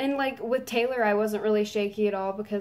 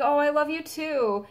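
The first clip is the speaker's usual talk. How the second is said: high, sweet imitation; pitched-up affectionate quote; retold affection; 6 semitones higher than usual. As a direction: coo it back to a fan. Voicing singer returning affection.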